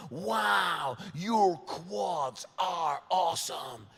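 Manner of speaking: slowly replayed compliment; retold gush, toned down. Scot replaying the compliment in his head, slow toned-down echo. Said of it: "what do I say back to that".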